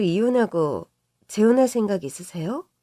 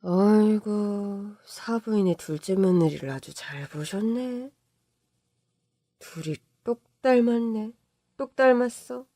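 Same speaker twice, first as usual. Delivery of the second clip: scoffing mother-in-law; 4 dB quieter than usual. Retold or imitated. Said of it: "이제는 기도 안 찬다는 듯 웃더라고요".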